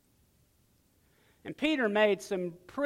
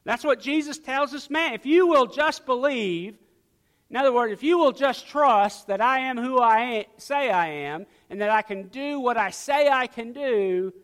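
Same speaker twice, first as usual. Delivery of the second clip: raised, louder preacher's voice; emphatic preaching; 6 semitones higher, 7 dB louder than usual. Real, not acted. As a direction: preach it with punch on the key words. Preaches at full force.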